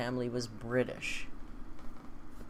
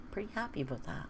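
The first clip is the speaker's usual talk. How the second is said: wry remark; 4 semitones higher, 8 dB quieter, faster than usual. Real, not acted. Wry comment on construction beside home.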